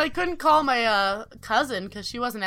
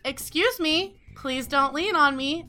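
polite but audible, raised pitch; polite request; 4 semitones higher than usual. Retold or imitated. First asking the girl to stop leaning, politely audible. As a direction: ask clearly, without shouting. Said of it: "I'm saying it loud enough".

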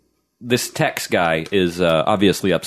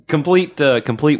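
excited; 9 semitones higher, 4 dB louder than usual. Acted. Exaggerated reading of notes.

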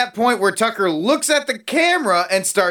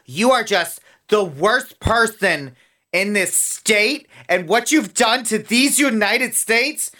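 mock prim speech; 4 semitones higher than usual. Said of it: "They wouldn't go".

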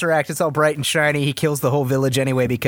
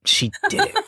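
squeaky tease; faster than usual. Acted. Teasing insistence.

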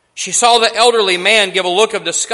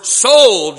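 auctioneer's call; 3 semitones higher, 8 dB louder than usual. Acted. Auctioneer calling out sale.

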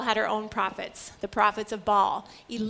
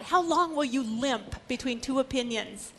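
Elijah challenging. Retold or imitated. Elijah challenges the people, lightly voiced. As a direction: challenge the wavering crowd. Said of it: "And Elijah said to the people".

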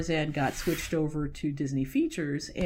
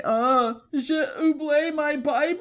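high, louder, unsure try at French; laughing at her own French; hopeful broken French; 10 semitones higher, 6 dB louder, slower than usual. Retold or imitated. To security guards, high laughing broken French.

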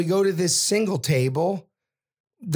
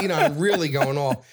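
ordinary delivery

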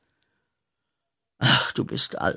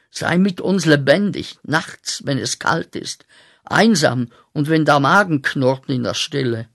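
flehender Ruf; 2 semitones higher, 4 dB louder than usual. Acted. Fordert Gott an.

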